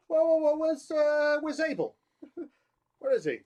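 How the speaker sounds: high, loud mock-detective bluster; Columbo-style God. God questioning Cain about Abel, in a high, loud mock-Columbo voice. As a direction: feign surprise like a nosy detective. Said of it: "fucking Columbo here comes up going".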